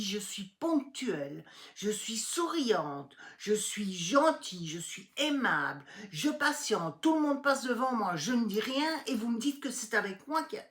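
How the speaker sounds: retold indignant rant, rising to a loud peak; indignant outburst. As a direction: list your virtues, getting angrier. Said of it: "j'étais hors de moi".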